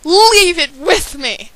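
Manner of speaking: high, loud, slow plea; crying out. Acted. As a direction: beg them to leave it. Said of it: "I cried".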